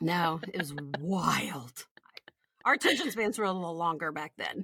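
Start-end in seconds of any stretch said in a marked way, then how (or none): 0.0-1.9 whisper. Real, not acted. Aside about old TV.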